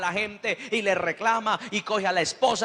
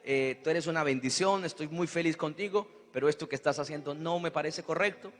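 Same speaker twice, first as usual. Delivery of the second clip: softer, tender words to a wife; gentle talk; 3 semitones lower, 5 dB quieter than usual. Retold or imitated. Husband gently corrects his wife, soft and loving. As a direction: soothe her while disagreeing.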